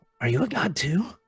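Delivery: whispered line in a character voice. Voicing a character leaning in close to ask another, whispering. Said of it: "kinda whispering".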